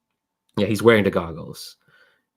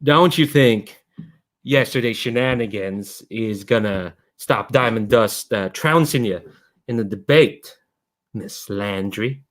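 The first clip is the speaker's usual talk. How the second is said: put-on Midwestern boy; slower than usual. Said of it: "I'm just gonna sound Midwestern".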